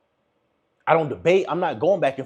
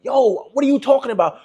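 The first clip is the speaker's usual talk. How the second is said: higher, stammering mock confusion; baffled questioning; 6 semitones higher than usual. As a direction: lightly imitate someone questioning everything. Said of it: "Question everything like".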